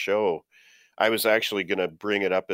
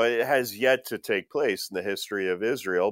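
ordinary delivery

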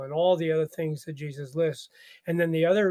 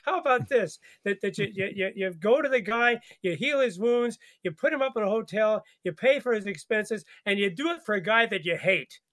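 Jesus's answer; 3 semitones higher than usual. Retold or imitated. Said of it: "And Jesus says".

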